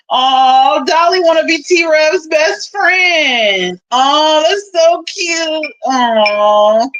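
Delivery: high, drawn-out sarcastic "aww"; mock cooing. Teasing Dolly about wanting T-Rev's friendship, mock cooing. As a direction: coo as if at something adorable, mockingly.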